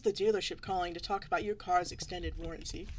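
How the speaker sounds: scam caller. Acted. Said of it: "It's a scam call".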